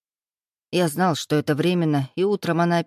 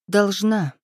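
sharp interruption; 3 semitones higher than usual. Acted. Heroine cuts him off sharply.

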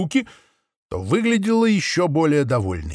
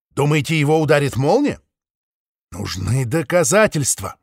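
higher, brisk heroine sheep voice; sheep Maple, determined; 3 semitones higher than usual. A narrator's reading. Maple urges the flock, eager and determined. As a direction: give Maple an eager, earnest lift.

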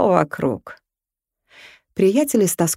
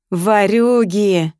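возмущённый возглас; much slower than usual. Acted. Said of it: "с чувством перебил его дракон".

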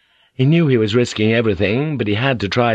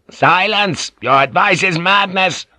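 sharp, higher angry rebuke; tongue lash; 10 semitones higher, 4 dB louder than usual. A narrator's reading. Yabu lashing out at Omi's advice, angry rebuke. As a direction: cut him down with a shout. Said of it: "Omi bowed under the tongue lash".

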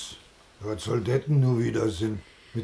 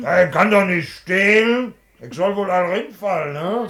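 higher and louder, protesting hard; indignant protest; 5 semitones higher, 8 dB louder than usual. Acted. Husband protesting to his wife about stealing, loud and indignant. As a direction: push back hard against her.

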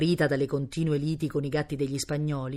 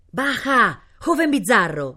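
high, loud hearty shout; calling out; 7 semitones higher, 5 dB louder, slower than usual. A narrator's reading. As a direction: call up to someone in a tree. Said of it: "gridò a Cosimo". (richiamo gridato)

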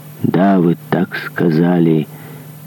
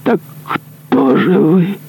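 shrill, much higher, slow disbelief; shocked cry; much slower than usual. Acted. Executioner horrified that the monk is no priest, much higher, slow. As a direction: cry out in horror. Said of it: "вскричал палач".

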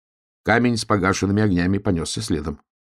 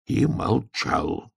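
pensive; 4 semitones higher, 4 dB quieter, much slower than usual. A narrator's reading. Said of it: "задумчиво сказал медвежонок".

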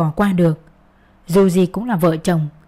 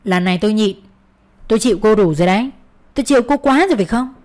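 fast, rising angry warning; faster than usual. Acted. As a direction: warn her, jabbing a finger. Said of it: "chỉ vào mặt tôi cảnh cáo".

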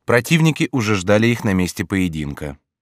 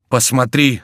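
higher, louder urgent call; 5 semitones higher, 5 dB louder, slower than usual. A narrator's reading. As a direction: call a friend over in alarm. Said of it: "сказал Антраге".

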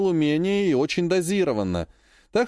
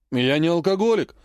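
indignant protest; 2 semitones higher than usual. Acted. Uncle protests to Lisa, indignant. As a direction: bristle and deny it. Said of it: "возмутился дядя Володя".

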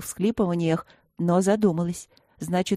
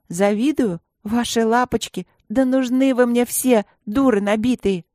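scornful, louder retort; a hammed-up schoolgirl tantrum; indignant outburst; 4 semitones higher, 4 dB louder than usual. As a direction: throw the insult back at her, rising. Girl snaps back in quarrel.

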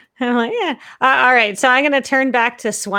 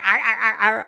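growling shark. Acted. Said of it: "I'm gonna, like".

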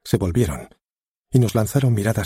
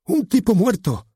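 much higher, louder and slow, barked like a dog; barked line; 4 dB louder than usual. Acted. The nervous actor announcing the death, barked far too loud. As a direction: puff up the chest and bark it. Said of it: "sacó pecho y voceó".

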